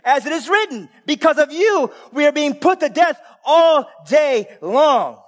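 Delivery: preached Bible reading that builds to a shout; scripture read with rising force. Acted.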